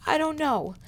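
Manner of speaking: high, loud, tearful voice breaking on each word; a girl forcing words through tears; crying. Acted. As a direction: sob the words out high and strained. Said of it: "started crying harder".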